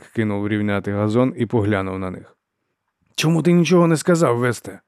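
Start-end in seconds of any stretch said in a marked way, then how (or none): 3.1-4.8 alarmed. A narrator's reading. Alarmed, running late.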